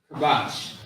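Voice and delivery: "kabash" with a light, simple k; unforced K. Shown as a demonstration. Teacher contrasting Hebrew words, "kabash" unforced. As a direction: say "kabash" without force in the throat. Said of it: "not really saying it with too much force".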